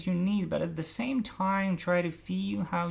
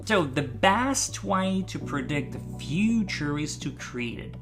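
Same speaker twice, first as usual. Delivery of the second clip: "best", "future", "create" hit harder than the rest; three stresses. Shown as a demonstration. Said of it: "so feel those stresses".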